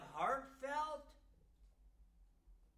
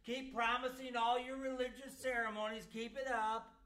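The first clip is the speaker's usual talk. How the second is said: lightly mocking paraphrase; sarcastic reading. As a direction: egg them on with a sneer. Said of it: "He's basically saying".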